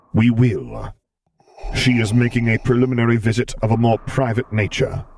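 calm, commanding dark lord; Vader's voice. A narrator's reading.

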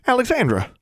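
startled, high-pitched exclamation; suddenly high, jumpy greeting; high and nervous. A narrator's reading. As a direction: yelp the name as if caught out. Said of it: "Her voice suddenly became high and nervous sounding".

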